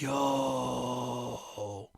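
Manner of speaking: breathy awed whisper; hushed, almost to himself. Acted. Frank finding the answer, whispering in awe. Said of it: "whispered to himself".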